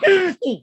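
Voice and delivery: high forced throat clear to mask giggles. Real, not acted. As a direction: fake throat clear hiding a laugh. Covering a laugh.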